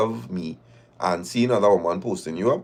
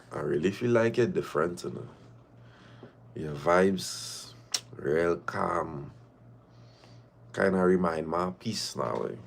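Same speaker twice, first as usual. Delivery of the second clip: low and much softer, crooning the line; soft sweet-talk; 6 semitones lower, 9 dB quieter than usual. Retold or imitated. Imitating the fella sweet-talking her at night, soft and low. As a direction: murmur it like a smooth charmer on the phone. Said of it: "calling me every night with that soft voice".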